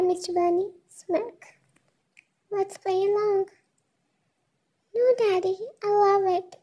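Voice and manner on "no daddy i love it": a touch of mock seduction, lightly voiced; understated seductive tease. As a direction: tease him with a playful purr. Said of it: "Seductive tone".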